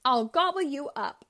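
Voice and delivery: loud blurted threat; troll bluffing at the goat; angry cry. Acted. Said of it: "I cried".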